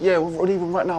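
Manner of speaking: loud, hurried backtracking; sudden switch. Retold or imitated. Caught-out driver telling passenger they're leaving, loud and abrupt. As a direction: imitate a driver suddenly changing his story. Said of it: "he just switched completely".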